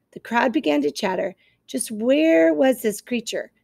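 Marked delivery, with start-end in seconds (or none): 1.7-3.5 slow, sly fox question; suspicious fox. Acted. Fox demands the location, slow and sly. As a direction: draw it out like a wary fox. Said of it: "said Fink the fox".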